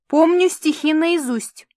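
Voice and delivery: high, sharp barked retort; barking. Acted. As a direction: snap it out. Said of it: "рявкнула Римма".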